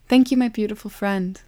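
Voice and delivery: a joyful, ringing call. A narrator's reading. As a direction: call across the meadow to a friend. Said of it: "Love called".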